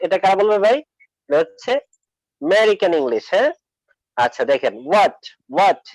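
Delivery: ordinary delivery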